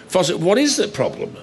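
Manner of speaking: mock-baffled question; playing dumb. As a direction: act as if you can't follow. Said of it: "playing dumb".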